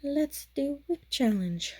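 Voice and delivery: slow, high, eager self-quote; excited. Retold or imitated. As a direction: chirp it like a sudden idea. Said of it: "And I was like".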